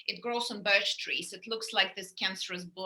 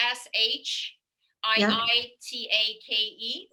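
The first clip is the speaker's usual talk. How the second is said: slow spelling; 4 dB louder, slower than usual. Shown as a demonstration. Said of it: "how do you spell those".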